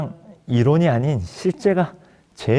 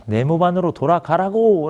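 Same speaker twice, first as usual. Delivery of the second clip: mildly raised, higher commanding voice; half-strength barked order; retold shout; 5 semitones higher than usual. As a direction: imitate an officer's yell without full force. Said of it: "소리를 지르셨는데".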